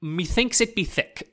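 lightly put-on thick Welsh villager accent; mock rural Welsh accent. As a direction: ham up an old-time Welsh local accent. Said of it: "an accent here for the locals".

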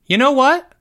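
high, loud mom voice; mother's voice. A narrator's reading. Mother with an idea for employee, high voice. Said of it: "the voice that used to belong to Greg's mother".

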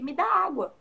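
bold command. Retold or imitated. Jesus boldly asking the Samaritan woman for water. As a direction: dare her to give it. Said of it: "naquela ousadia".

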